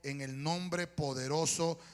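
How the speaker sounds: earnest, emphatic prayer in measured phrases; public prayer. Real, not acted. Preacher praying over the congregation's petitions, earnest and emphatic.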